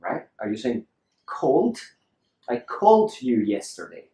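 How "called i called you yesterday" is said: "called" as one syllable, L straight into D; E left silent. Shown as a demonstration. Teacher tries out the word for learners, E silent. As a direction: say "called" with no E before the D. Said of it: "That's pretty good, huh?".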